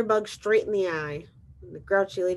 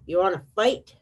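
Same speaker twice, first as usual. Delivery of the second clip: louder storybook challenge, rising at the end; grouchy ladybug; 6 dB louder than usual. Acted. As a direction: pick a fight as a grumpy bug. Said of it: "said the grouchy ladybug".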